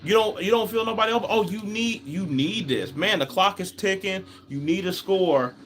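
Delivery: high, exasperated scolding of a passive quarterback. Retold or imitated. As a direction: lecture him like a frustrated fan yelling at the TV. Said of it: "I'm like, it's like".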